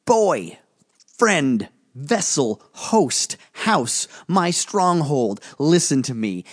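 put-on high, forceful spirit voice daring the boy; a looming spirit giving a last warning; menacing volcano spirit. Volcano spirit pressing Gus to choose, menacing.

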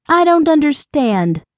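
high, bewildered woman's voice; anxious confusion. A narrator's reading. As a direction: lift the pitch in worried confusion. Confused, frightened woman pleads.

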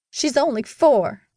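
high, slow plea yelled back; mother yelling back. A narrator's reading. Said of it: "Mama yelled back at him".

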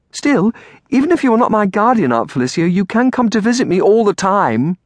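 put-on high, girlish eager voice. A narrator's reading. Girl asks aunt to visit her, eager. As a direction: press the idea like a hopeful child. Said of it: "Amelia said eagerly".

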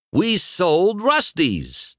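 slow, high, proclaimed reveal; exclaimed news. Acted. Dusty revealing the sale to Lightning, high exclamation. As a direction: announce it with each word stretched. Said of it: "Dusty exclaimed".

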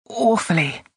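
put-on young man's trembling answer, understated; a touch of tremble in the answer. A narrator's reading. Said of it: "answered in a trembling voice".

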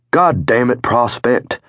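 high-pitched exasperated outburst; exasperated rebuke. A narrator's reading. Otis rising to rebuke the prospect, exasperated. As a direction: scold him, voice jumping up.

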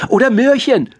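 very high little bunny voice; rabbits calling out. A narrator's reading. Rabbits and hares call out their own wish, high-pitched animal voices. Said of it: "riefen die Kaninchen und Hasen".

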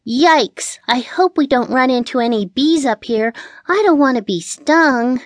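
high, anxious cat voice; worried cat. A narrator's reading. Cat afraid of being stung, anxious.

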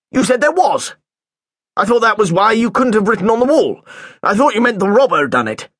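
suspicious head teacher questioning a pupil; lightly voiced headmaster. Headmaster confused.

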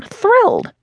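Thrilled jumped way up high and pushed out; Thrilled squeaked high in forced enthusiasm; emphatic echo. Acted. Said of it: "laughs awkwardly".

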